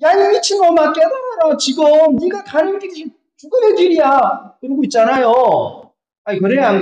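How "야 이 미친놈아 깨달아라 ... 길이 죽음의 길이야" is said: donkey's rebuke. Acted. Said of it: "동물들도 짐승도".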